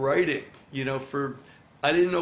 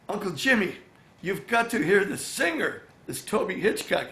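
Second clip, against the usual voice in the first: higher-pitched, mildly excited urging; imitated eager niece; 5 semitones higher than usual. Niece urging her uncle to hear a singer, imitated eagerness. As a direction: act out an insistent recommendation.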